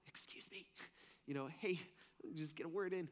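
timid whisper rising to a small soft voice; weak, wimpy voice. Pretend. Preacher mocking a God too meek to interrupt, wimpy voice. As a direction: pretend to interrupt meekly and barely audibly. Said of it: "a little weak, wimpy voice".

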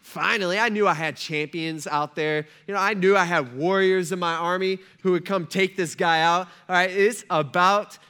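building from ordinary to emphatic eagerness; pumped-up king. Retold or imitated. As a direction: grow excited, landing hard on the last words. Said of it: "Saul's getting all pumped up".

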